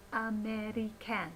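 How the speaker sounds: "American" pronounced a-meh-ree-CAN; carefully sounded "American", ending like the word "can"; fully enunciated syllables. Shown as a demonstration. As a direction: give "American" a full short-a in its last syllable. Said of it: "instead of a in the syllable can".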